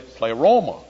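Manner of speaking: put-on pleroma with the accent on the wrong syllable; mispronounced pleroma. Preacher mimicking his seminary professor's Greek, pleroma misaccented. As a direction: say pleroma as play-ROH-ma, stressing the middle. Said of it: "with the accent on the wrong syllable".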